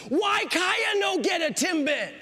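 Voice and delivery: put-on high, drawn-out toddler wail; screaming toddler. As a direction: imitate a small child's indignant shriek. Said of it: "I hear this screaming".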